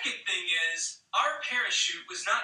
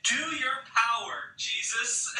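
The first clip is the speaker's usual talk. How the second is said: mock shout; 2 semitones higher, slower than usual. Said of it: "Now this girl is saying".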